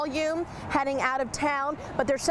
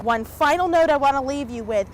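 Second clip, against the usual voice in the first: raised voice over the wind; shouting over wind; 4 dB louder than usual. Real, not acted. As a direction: project loudly against the gusts. Reporter outdoors in storm wind.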